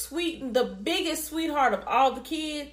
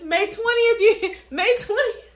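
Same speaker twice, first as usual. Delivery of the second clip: "May twentieth" said higher and louder, gleeful; excited repeat; 6 semitones higher, 3 dB louder than usual. Real, not acted. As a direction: sing out "May twentieth" with glee.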